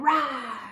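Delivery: playful mock lion roar. Shown as a demonstration. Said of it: "Are you roaring like a lion?".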